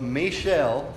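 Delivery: Michel slowed, in an amateur French accent; bad French accent. Shown as a demonstration. Preacher repeating the French name after apologizing, bad French accent. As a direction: stretch Michel out as a rough French "mee-shell". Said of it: "sorry for my bad accent".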